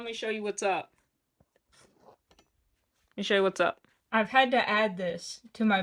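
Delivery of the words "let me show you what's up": slow, put-on goofy voice; drawn-out silly voice. Shown as a demonstration. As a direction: stretch it out in a goofy voice. Repeats the line slowly in a put-on voice.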